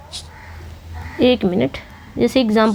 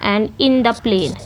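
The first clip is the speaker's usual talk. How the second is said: slow reading; 3 semitones lower, much slower than usual. Shown as a demonstration. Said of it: "reading the example line".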